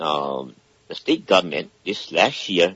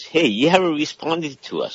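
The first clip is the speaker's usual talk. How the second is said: mildly upset complaint, pitched higher; imitated official complaint, high-pitched; retold upset; 9 semitones higher than usual. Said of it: "F T A gets upset".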